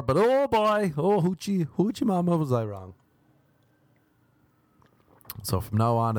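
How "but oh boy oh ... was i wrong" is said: hammed-up surprise. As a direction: belt it like a silly catchphrase. Hammed exclamation in quote.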